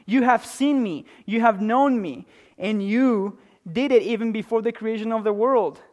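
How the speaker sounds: a hint of an awestruck believer; lightly voiced worshipper. Preacher showing the congregation their response, mildly fervent. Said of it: "our response should be like this".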